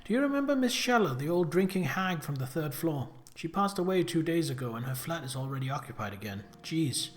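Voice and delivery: reading Lucy's chatty letter in a light Brummie lilt; lightly voiced letter from a sister. Sister Lucy writing to Pippa in London, lightly voiced. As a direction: voice the sister gossiping from home, loosely.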